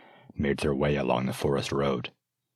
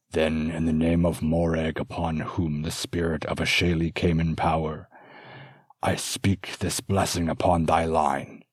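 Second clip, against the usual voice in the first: bestow it like a sacred rite; solemn old master blessing. Acted.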